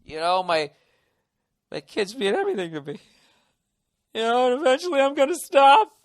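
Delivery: hammed-up noble documentary subject; noble self-righteous. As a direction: play the dignified drunk for the camera. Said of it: "I'll be all noble about it".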